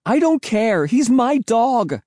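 very high, drawn-out scream of protest; high-pitched defiant outburst. Acted. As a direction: scream it like a frantic child. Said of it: "I screamed".

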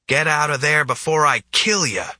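high yelled threat; screaming. A narrator's reading. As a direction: shout it at the hobo. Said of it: "screamed the bull".

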